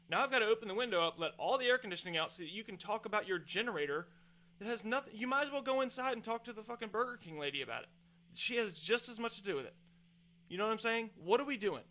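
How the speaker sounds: venting, getting worked up; heated rant. Real, not acted. Ranting to listeners about strangers interrupting lunch, heated. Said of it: "Sorry, I'm getting a little heated up".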